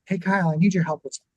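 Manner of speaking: quick, easy ask that keeps him relaxed; friendly request. Shown as a demonstration. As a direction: ask for help lightly so he doesn't tense up. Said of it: "I'm gonna go".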